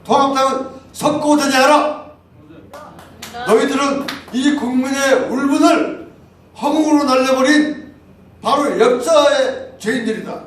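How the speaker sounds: the group's second statement condemning the party, declaimed loudly; declaiming a denunciation. Retold or imitated. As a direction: thunder it out like a protest statement. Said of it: "두 번째 발표가 뭐냐면".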